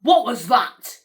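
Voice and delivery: loud disbelief; real startled shock. Real, not acted. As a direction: demand it loudly, still shocked. Startled by scary clip.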